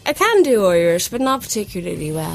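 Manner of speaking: modest attempt at Irish; Irish accent. Shown as a demonstration. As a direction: have a hesitant go at an Irish accent. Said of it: "can you do an Irish accent?".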